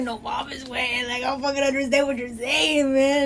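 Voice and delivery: put-on Cholo accent; mock Cholo accent, playing baffled. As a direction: mimic a dad faking a Cholo accent. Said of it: "talking in a Cholo accent too".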